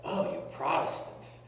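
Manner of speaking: lightly mimicked complaint, pitch climbing toward the end; imitating Carol. Carol teasing the preacher about singing, mock complaint. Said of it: "Carol says to me a lot of times".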